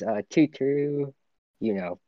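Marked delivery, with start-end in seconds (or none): 0.3-1.1 light, raised sing-song toot toot; character's toot toot. Retold or imitated. Friend imitating an anime girl's catchphrase, lightly raised. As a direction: quickly imitate her catchphrase. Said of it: "she's the one that goes".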